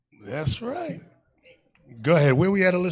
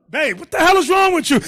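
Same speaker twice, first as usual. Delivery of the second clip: mock baffled husband; 8 semitones higher, 5 dB louder than usual. Husband confronting wife.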